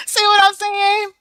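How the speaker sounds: high, loud, slow rhetorical question; emphatic. Real, not acted. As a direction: lean hard on it.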